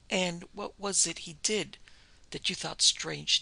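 slow, gentle question; sympathetic. Acted. Doctor gently and slowly draws out the wife. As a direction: ask kindly and slowly. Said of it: "he asked sympathetically".

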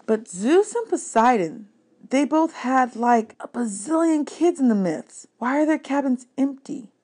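put-on a curious kid pressing his friend; hint of a younger boy, eager; young Percy. Percy's voice in dialogue.

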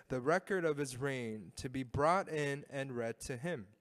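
measured congregational Bible reading; scripture reading. A narrator's reading. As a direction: read the passage aloud as one voice with the congregation.

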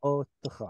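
אותך with long open "o", then a light "te-kha"; unstressed audible shva. Shown as a demonstration. Teacher showing the syllable break, אותך with audible unstressed shva. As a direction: sound the shva in אותך briefly, without stressing it. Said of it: "it is audible".

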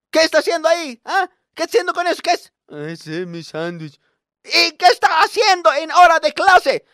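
teacher scolds pupil for eating in class; scolding teacher. Retold or imitated. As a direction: demand an answer from the pupil.

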